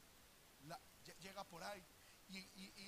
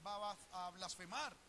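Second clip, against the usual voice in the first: Satan insisting; 3 semitones higher, 5 dB louder than usual. Retold or imitated. Preacher voicing Satan to God, loud and sure. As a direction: voice Satan's confident claim, louder. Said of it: "Satanás estaba asegurando".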